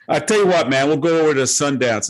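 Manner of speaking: breezy mock Valley Girl accent. Visitor proposing a restaurant, imitated Valley Girl accent. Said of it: "this Valley Girl accent".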